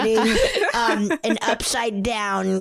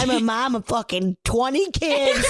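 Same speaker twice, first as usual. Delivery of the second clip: mock-exasperated mom, pitched up through laughter; frazzled mom; 5 semitones higher than usual. Podcaster voices the messy-haired mom for laughs, mock-exasperated. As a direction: play an overwhelmed mother, half laughing.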